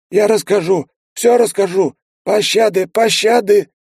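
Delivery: high, loud desperate begging; plaintive moan. A narrator's reading. Lizard begs mercy. (высокая громкая мольба)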